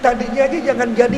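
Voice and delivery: a touch of a grieving mother's wail, understated; mildly tearful mother asking why her baby died; mock weeping mother. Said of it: "Mbaknya nangis".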